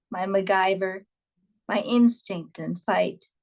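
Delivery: deliberate phrase-by-phrase verse reading; poem reading. A narrator's reading. Poet describes her inner warrior to audience, measured poem reading. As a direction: recite the list line by line, pausing after each.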